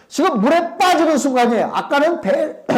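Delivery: ordinary talk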